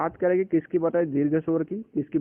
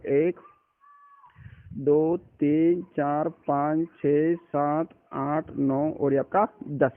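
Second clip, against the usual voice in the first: slow counting; much slower than usual. Shown as a demonstration. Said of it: "मैं एक बार और गिन के बता देता हूँ".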